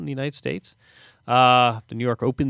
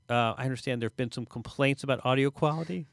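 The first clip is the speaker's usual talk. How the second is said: on speakerphone; 2 semitones higher than usual. Real, not acted. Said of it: "This sounds much better now".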